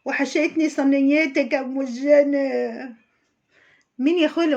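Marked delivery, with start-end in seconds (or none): 0.0-3.0 stuffy-nosed voice. Retold or imitated. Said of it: "وبصوت شتوي".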